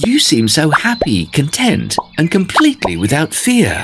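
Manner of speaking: lightly voiced shy tortoise; Norton voice. Norton admires snail.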